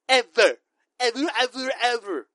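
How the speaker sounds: loud, slow, drawn-out gushing; emphatic hype. Real, not acted. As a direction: oversell it like a true fan. Hyping Star Wars over his cohost.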